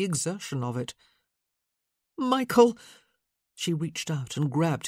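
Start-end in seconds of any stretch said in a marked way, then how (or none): 2.2-2.8 sharp shout. Acted. Scolding shout.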